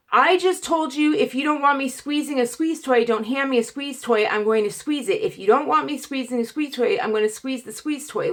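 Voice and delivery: retold exasperation, starting high and settling down; exasperated. Patient retorting to techs who took the toy, exasperated. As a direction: spell it out to them, fed up.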